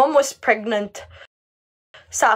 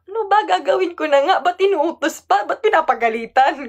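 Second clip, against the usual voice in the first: raised, whiny protest; annoyed retort; 5 semitones higher than usual. Retold or imitated. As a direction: grumble back at a nagging auntie. Retorting to nagging auntie.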